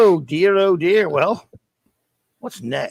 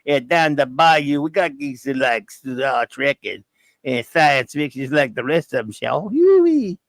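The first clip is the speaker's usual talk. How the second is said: mock Cajun accent. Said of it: "in a Cajun accent".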